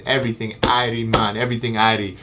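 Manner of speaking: lightly put-on Jamaican accent; fake Jamaican accent. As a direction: toss it off in a mock Jamaican lilt. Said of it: "my fake Jamaican accent".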